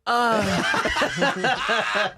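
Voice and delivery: high, drawn-out joke moan; mock sexual moan. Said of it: "You moan, like, sexually".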